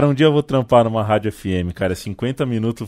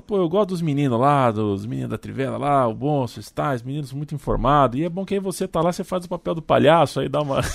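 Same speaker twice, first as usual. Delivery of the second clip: a light imitation of the journalist, voice raised and casual; imitating the journalist; 5 semitones higher than usual. Host imitating journalist's clumsy praise, mildly mocking. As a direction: mimic a casual backhanded compliment. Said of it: "Ele falou".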